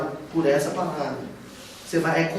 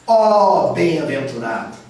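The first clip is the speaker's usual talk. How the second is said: "ó bem-aventurado" drawn out, slow and louder; exclaiming; 4 dB louder than usual. Shown as a demonstration. Teacher demonstrates the exclamatory translation, slow and loud.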